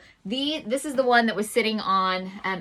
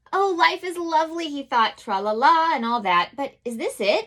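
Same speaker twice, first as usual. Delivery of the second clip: a hint of a dreamy bear, sing-song; lightly voiced bear musing; 5 semitones higher, 3 dB louder than usual. Mother reading the bear's musings, lightly sing-song. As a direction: muse it like a daydreaming bear. Bear's thoughts read aloud.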